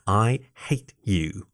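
slow, mild mock growl. A narrator's reading. Fox glares at Jason after a poke, playfully growling. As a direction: draw the words out in a sulky growl.

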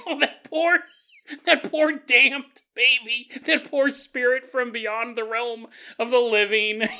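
dramatic pretend compassion; mock pity. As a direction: lament the poor soul, hammed up. Mock pity for baby ghost.

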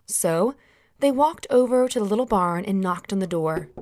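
ordinary delivery

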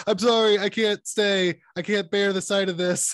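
high, pleading mock apology; whiny Dr Mann. Dr Mann begging Cooper while walking away, high and whiny. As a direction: wail the excuses pathetically. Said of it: "won't shut up".

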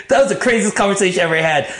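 fast, high-pitched through laughter; real amusement lifting the voice; laughing. Real, not acted. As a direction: talk on while cracking up. Still laughing at the memory.

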